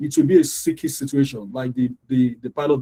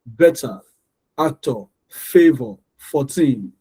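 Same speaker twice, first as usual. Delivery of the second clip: "Better, actor, favor, fourteen" each split into evenly weighted syllables; slow word list, both syllables of "actor" and "favor" equally heavy; deliberately wrong stress; slower than usual. Shown as a demonstration. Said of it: "I'm gonna pronounce them wrongly now".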